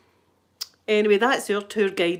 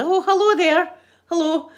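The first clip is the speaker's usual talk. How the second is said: imitating the creepy woman; 7 semitones higher than usual. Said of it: "that wee woman just kinda".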